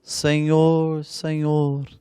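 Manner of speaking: retold plea, each Senhor stretched out; stretched, half-hearted mock cry; mock drawn-out cry. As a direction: imitate a long cry without really shouting. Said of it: "começarão a gritar".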